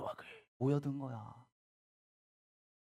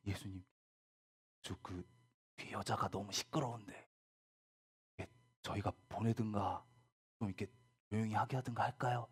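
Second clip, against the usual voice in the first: softer, hesitant disciples, a bit lower; hesitant murmur; 5 semitones lower, 6 dB quieter, faster than usual. Acted. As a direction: tiptoe the suggestion in a low, careful voice. Disciples nervously suggesting to Jesus.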